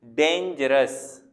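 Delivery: डेंजरस very slow, split after the first syllable; slow teacher's sounding-out of डेंजरस; syllable break. Shown as a demonstration. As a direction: pause briefly inside डेंजरस, after डेन. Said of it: "अगर हम इसको पढ़ें".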